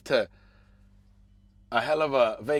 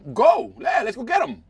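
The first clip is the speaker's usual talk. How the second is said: mock battle cry; 9 semitones higher, 7 dB louder than usual. Mock war cheer.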